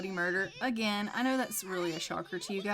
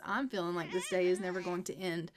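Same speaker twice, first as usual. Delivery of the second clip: weary laugh; 2 semitones lower than usual. Real, not acted. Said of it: "to be completely honest".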